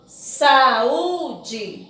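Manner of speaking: Saúde split into three drawn-out syllables. Shown as a demonstration. Teacher counting syllables for pupils, Saúde pulled apart slowly. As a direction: break Saúde into sa, ú, de. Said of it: "Tem três sílabas".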